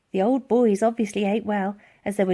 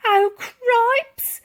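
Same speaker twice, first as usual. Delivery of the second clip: muttered; 11 semitones higher, 6 dB louder, slower than usual. Acted. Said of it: "muttered the lady".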